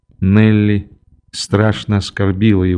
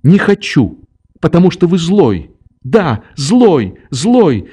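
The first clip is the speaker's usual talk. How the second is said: put-on higher, childish stubborn voice; a sulky girl pushing the old man away; girl's defiant refusal; 6 semitones higher than usual. A narrator's reading. A defiant girl refusing the old man, higher voice. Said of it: "прибавила она".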